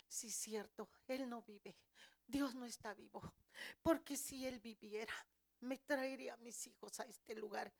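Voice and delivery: soft, resigned acceptance; subdued agreement. Retold or imitated. Mother losing faith about her children, subdued and quiet. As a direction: say it softly, giving in. Giving in after being rebuked.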